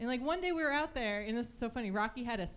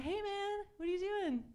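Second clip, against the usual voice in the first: mock casual probe; 4 semitones higher than usual. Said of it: "I was like".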